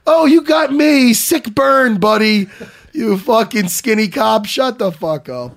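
fake-thank him, then cut him down; sarcastic comeback. Mock comeback to the jab.

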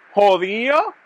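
ordinary talk

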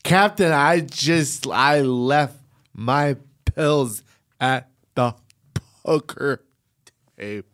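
put-on halting, slowing drunk excuse; mock drunk pleading. Improvising drunk crew member asking captain.

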